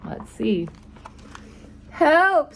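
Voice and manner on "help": high, loud cry for help; scared cry. Acted. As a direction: yelp it out in a panic. Cook cries out in fright.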